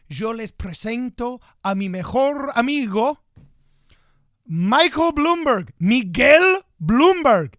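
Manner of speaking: slow, high, building to a loud introduction; play-announce the candidate like a big reveal; drawn-out hype intro, names belted out; mock endorsement speaker. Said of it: "I just wanna do a basic endorsement".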